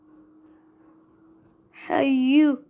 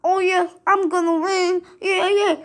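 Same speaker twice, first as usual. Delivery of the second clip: mocking own gloat; 4 semitones higher than usual. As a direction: parody yourself bragging too early.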